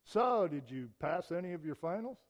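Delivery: imply you expect they failed; doubting question. Shown as a demonstration. Friend questioning a student after finals, doubting jab. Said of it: "would you rather hear him say".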